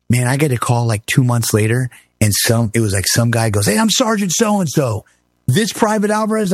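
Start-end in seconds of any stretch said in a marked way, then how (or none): 3.7-6.5 mock angry sergeant. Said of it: "Why are you so angry".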